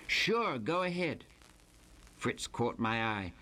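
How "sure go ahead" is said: eager. Acted. Fritz's eager reply.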